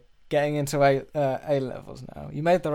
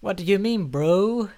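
higher-pitched bewildered bloke in an improv; hammed-up, higher character voice; Trev; 6 semitones higher, 3 dB louder, slower than usual. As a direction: play a put-upon robbery victim, pitched up. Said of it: "be a man called Trev".

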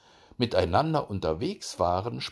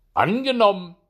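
high, loud hare voice; cocky hare sealing a bet; eager hare; 10 semitones higher, 9 dB louder than usual. A narrator's reading. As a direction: call out agreement, pitched up.

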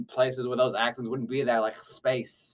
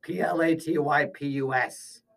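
slow, emphatic letter-by-letter. Acted. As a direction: call out each letter deliberately for someone typing. Spells name out for co-host typing.

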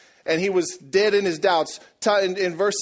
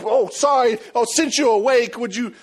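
mock innocent; 7 semitones higher, 7 dB louder than usual. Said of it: "Made it look like an accident".

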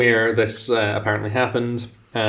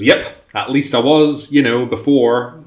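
lightly voiced old prospector, higher; a hint of a doddering old man; 3 semitones higher, 5 dB louder than usual. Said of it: "and he goes".

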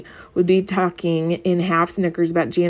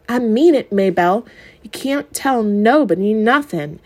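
loud, high pleading threat; desperate threat; 4 semitones higher, 3 dB louder than usual. Acted. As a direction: make her swear, desperate.

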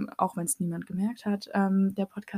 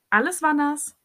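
dramatic slow complaint; 6 semitones higher, 8 dB louder than usual. Real, not acted. Dramatic climax of the mishap.

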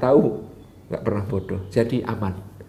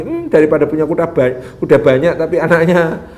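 sneering neighbours; 2 semitones higher, 6 dB louder than usual. Acted. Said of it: "Kata tetangga-tetangga mencibir lagi".

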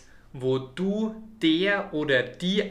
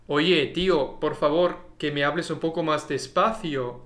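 quick, native-sounding Spanish; Spanish phrase; faster than usual. Shown as a demonstration. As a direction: rattle it off like a Spaniard. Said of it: "Im Spanischen zum Beispiel könntest du so etwas sagen wie". (schnell gesprochenes Spanisch)

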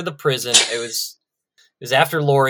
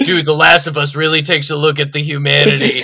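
smug fan; 4 dB louder than usual. Retold or imitated. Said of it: "the same guy that's gonna tell you".

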